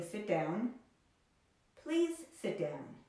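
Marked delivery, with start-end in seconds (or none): 1.8-3.0 polite request. Shown as a demonstration. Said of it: "making the imperative sound more polite".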